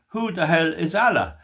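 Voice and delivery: mild imitation of a shout; retold shout. Man recounting what a lad shouted at a demonstration, mock shout. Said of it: "One lad shouted".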